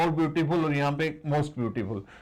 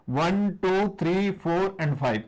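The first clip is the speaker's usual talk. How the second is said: slow counting; much slower than usual. Shown as a demonstration. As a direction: draw "one" out slowly. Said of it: "देखो आप". (धीरे-धीरे गिनती करते हुए)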